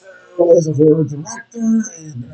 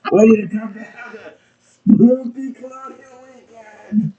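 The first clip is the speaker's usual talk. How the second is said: put-on town drunk; 2 semitones higher, 3 dB louder than usual. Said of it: "I'm the town drunk".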